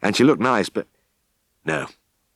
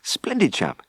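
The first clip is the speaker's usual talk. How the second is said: nervous; 8 semitones higher than usual. Acted. Jim nervously praising to farmer.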